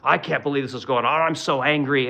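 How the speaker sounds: lightly hammed-up outraged pundit; mock angry TV host. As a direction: parody a huffy cable news anchor. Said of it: "they're like".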